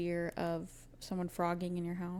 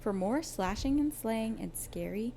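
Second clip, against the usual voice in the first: spooky whisper; 2 semitones higher, 4 dB louder than usual. Acted. Spooky outro sign-off.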